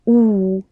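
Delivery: "U" as a long oo sound; rounded, held Russian "U"; protruded lips. Shown as a demonstration. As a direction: push the lips forward for "U". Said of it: "You protrude your lips to pronounce it".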